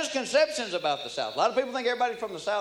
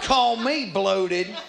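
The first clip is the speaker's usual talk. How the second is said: slow, put-on bloated whine; much slower than usual. Punchline in a put-on voice.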